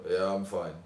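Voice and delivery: brisk question, offhand reply; uninterested. Acted. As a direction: toss it out without listening. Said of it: "I'm not listening to you".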